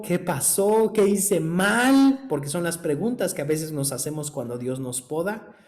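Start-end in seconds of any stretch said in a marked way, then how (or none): 0.0-2.3 mock tearful. A narrator's reading. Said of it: "Triste, llorando".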